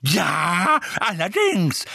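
high, loud, scornful agreement; angry emphatic cry; screaming. A narrator's reading. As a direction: shout it back furiously. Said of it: "schrie Misses Figg".

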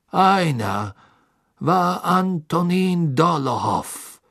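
hoch, gedehnt beteuernd; nervöser Karkaroff. Acted. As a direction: reuig bitten und beschwichtigen. Karkaroff nennt Namen. (Karkaroff beteuert dem Gericht seine Reue)

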